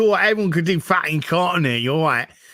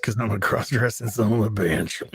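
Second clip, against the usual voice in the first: Southern accent; 5 semitones lower than usual. Shown as a demonstration. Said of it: "about to bust into a country song".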